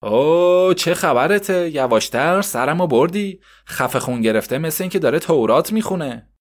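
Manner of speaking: irritated mother telling her son to hush; annoyed mother. Acted. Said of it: "کبرا عصبی شد".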